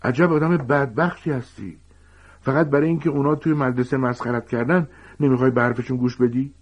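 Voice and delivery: Harry shouts at Snape, furious and accusing; Harry shouting. A narrator's reading. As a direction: yell it at Snape in outrage. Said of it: "هری فریاد زد".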